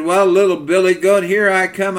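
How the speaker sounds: playfully menacing troll, lightly acted; storybook troll. Troll threatens to eat the little goat, mock menace.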